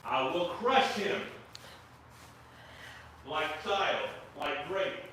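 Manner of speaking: slow, brutish barbarian boast. Pretend. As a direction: growl it like a barbarian warrior. Boasting in a put-on voice.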